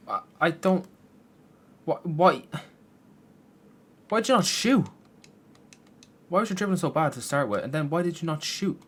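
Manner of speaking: high, loud pleading why-questions; exasperated yelling. Real, not acted. Gamer yelling at his player for not shooting. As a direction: demand answers from the screen.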